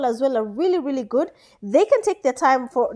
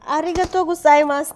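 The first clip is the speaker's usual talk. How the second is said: mock Japanese thanks; 4 semitones higher, 4 dB louder than usual. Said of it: "I know I don't sound Chinese, but that's the sound".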